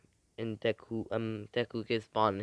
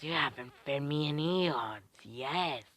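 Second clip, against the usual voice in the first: hungry snake, higher pitched; 3 semitones higher than usual. Acted. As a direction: complain to your master as a hungry snake. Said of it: "And that voice, the snake says".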